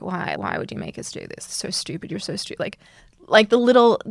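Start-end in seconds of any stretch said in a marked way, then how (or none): 0.0-2.5 mock grumbling. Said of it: "being like".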